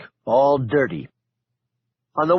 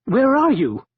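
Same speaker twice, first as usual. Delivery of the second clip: hissed; 10 semitones higher, 4 dB louder than usual. Acted. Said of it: "he hissed".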